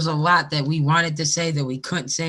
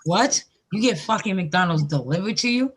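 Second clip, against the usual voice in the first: a touch of outraged disbelief, slightly higher; mock Les shocked at delivery; indignant disbelief; 3 semitones higher than usual. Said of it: "she said".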